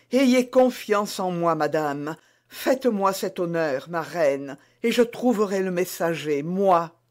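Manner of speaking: lightly voiced maid, proud and earnest; reassuring young maid. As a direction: offer herself to the queen. Bonacieux rassure la reine. (servante fière et sincère)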